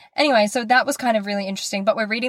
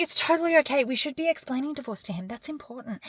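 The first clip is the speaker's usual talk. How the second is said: 1 mock-earnest reassurance; 4 semitones higher, 6 dB quieter, faster than usual. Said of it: "I was like".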